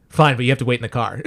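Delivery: a tired grown-up caving in; a sigh, then a low quick give-in; weary mock Brad Pitt. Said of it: "And he's like".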